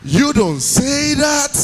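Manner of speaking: very slow, stretched catchphrase; slow drawled catchphrase. Retold or imitated. Uchenna replying to his friend, very slow. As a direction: drag out every word. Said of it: "He said".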